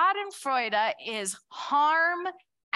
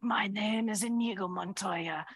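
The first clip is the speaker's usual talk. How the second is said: lower, grave avenger's line slowing at the end; light impression of a grave revenge hero; Inigo Montoya; 3 semitones lower than usual. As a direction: deliver the vow like a sworn swordsman. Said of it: "he's like".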